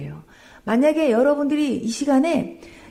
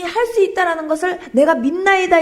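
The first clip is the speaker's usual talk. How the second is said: high, loud preaching fervour; preacher voicing the believer's confession, fervent; 7 semitones higher, 5 dB louder than usual. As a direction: proclaim the confession with full force.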